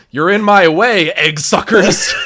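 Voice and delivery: put-on loud, high, slow old lady snarl; hammed-up cranky old woman, slow and loud; old lady's line. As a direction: growl it out like a mean old lady with a gun. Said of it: "And the lady goes".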